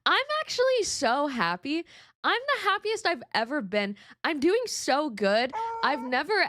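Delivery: sarcastic, overdone cheer about herself; mock cheerful. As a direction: pretend to be fine, laying it on thick. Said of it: "gaslight myself into thinking that I'm fine".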